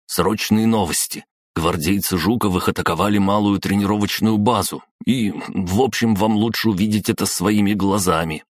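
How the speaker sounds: lightly voiced anxious aide; urgent servant. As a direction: rush the news out, uneasy. Helper bursts in with news. (взволнованный помощник)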